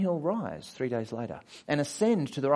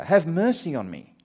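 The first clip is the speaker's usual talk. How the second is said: raised plea, a little higher and louder; moderately loud acted cry for mercy; calling out; 4 semitones higher, 5 dB louder than usual. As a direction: call out shamelessly for help. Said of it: "Shameless calling out".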